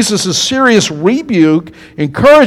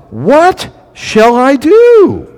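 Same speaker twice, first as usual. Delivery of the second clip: slow, higher, wondering voice of God; God pondering; 7 semitones higher, much slower than usual. Retold or imitated. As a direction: muse it aloud like God deciding. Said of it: "God say".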